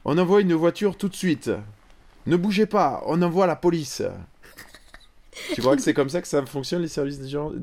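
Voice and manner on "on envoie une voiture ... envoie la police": higher, louder urgent officer; police adjudant-chef. Pretend. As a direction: give urgent orders like a cop. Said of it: "je fais l'adjudant-chef Robert".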